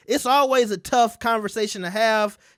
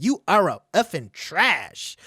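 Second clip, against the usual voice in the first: prim mock quote; 2 semitones lower, slower than usual. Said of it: "She said".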